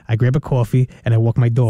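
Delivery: "I grab a coffee and I walk my dog" in a Long Island accent, coffee as "cawfee"; New York accent. Shown as a demonstration. Host reads the test sentence in her New York accent. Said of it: "now Addison's gonna say that".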